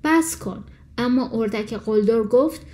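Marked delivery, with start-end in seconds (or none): 0.0-0.6 a higher-pitched cry of stop; mother duck crying out to stop the bully; shouting. A narrator's reading. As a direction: yell at the bully to quit. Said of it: "فریاد زد".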